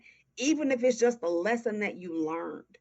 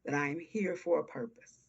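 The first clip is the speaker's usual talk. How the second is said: near tears. Real, not acted. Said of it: "you're gonna make me cry".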